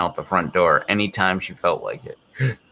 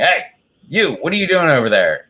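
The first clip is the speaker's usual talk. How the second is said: mock yell; 8 semitones higher, 4 dB louder than usual. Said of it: "And I actually yelled at the dog".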